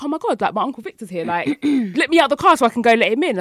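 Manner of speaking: bright, eager call about her uncle; thrilled to see the uncle at the door; excited. Retold or imitated. To her boyfriend, eagerly wanting out of the car.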